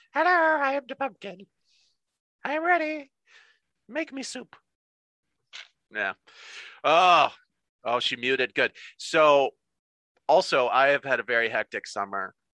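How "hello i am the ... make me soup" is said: tiny, squeaky little voice, very high. Joking with a fellow speaker, voicing a talking pumpkin, little pumpkin voice. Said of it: "the little pumpkin voice goes".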